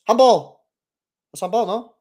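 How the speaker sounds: sharp loud appeal; loud surprised appeal for handball; appeal shout. Real, not acted. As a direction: shout it at the ref. Live appeal in match.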